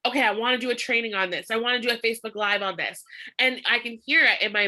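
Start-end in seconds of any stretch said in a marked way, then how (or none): 0.1-3.0 fast, amped-up voice note. Retold or imitated. Recording a voice note on a walk, fast and amped. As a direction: rattle it off excitedly. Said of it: "I'll voice note".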